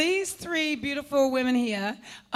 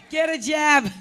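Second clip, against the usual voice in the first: put-on American accent, played for laughs; 3 dB louder than usual. Shown as a demonstration. Panelist repeating a joke line in an American accent. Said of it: "give us your best American accent".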